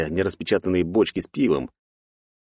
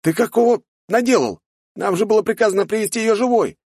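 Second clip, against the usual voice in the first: angry yell; 4 dB louder than usual. A narrator's reading. Partner yells at bearded man.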